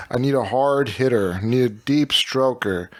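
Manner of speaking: faintly Ben Stein-like reading; attempted character accent, mostly lost. Trying rap verse three, lightly put-on voice. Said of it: "a little bit of Ben Stein almost".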